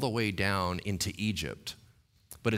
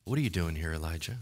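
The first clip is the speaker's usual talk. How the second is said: voice of God; 5 semitones lower, 4 dB quieter, faster than usual. Acted. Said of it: "and it said, what?".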